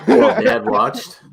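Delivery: high, drawn-out words through laughter; laughing. Real, not acted. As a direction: laugh the line out slowly. Joking amid laughter.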